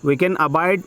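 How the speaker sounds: measured, phrase-by-phrase passage reading; dictation reading. Acted. Teacher dictating an exam passage to students, measured dictation. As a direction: read it out slowly in short chunks with pauses.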